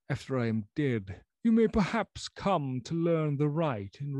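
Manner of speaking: high, strained voice of a broken man; doomed old doctor. Acted. Lanyon's voice in the story.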